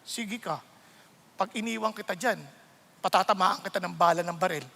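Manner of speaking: low, soft warning; mild stern caution; God warning him off road rage. Acted. God voiced warning the driver.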